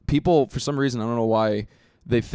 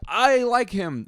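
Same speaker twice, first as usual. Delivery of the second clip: put-on high childish voice; kid voice; 10 semitones higher, much slower than usual. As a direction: sound like a dumb kid fan. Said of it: "kids are like".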